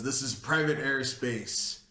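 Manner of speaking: a slight slow pirate lilt, barely there. Retold or imitated. Officer warning a ship, a hint of pirate in it. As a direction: lean lightly into a pirate captain. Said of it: "I still have the pirate in my head".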